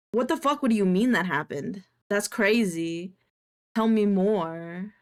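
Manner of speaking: loud, amazed fake interest; mock excited reaction. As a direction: ham up the amazement. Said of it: "I use it as kinda like a".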